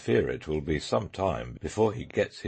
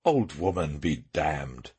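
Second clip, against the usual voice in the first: sharp; 3 semitones lower, slower than usual. Acted. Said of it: "said Sherlock Holmes sharply".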